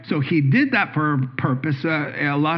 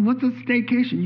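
puzzled; 8 semitones higher than usual. Retold or imitated. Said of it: "I'm like".

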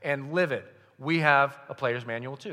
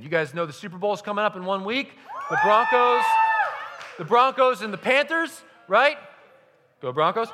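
excited shout; 6 semitones higher, 6 dB louder than usual. Real, not acted. Hyping the Super Bowl.

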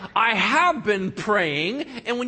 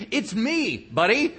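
normal talking voice

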